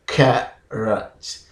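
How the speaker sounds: "carrot" split as KEH... rot; syllable by syllable. Shown as a demonstration. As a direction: pause between the two syllables of "carrot". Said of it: "say the word carrot".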